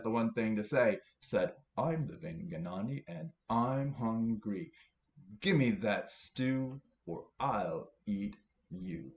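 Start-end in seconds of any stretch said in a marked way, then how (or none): 1.8-9.1 slow menacing monster. Acted. Monster's threat.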